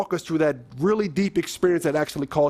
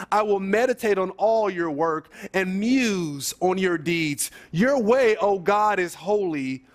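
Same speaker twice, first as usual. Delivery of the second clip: scripture reading. Acted. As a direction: read scripture aloud, line by deliberate line. Reads psalm aloud.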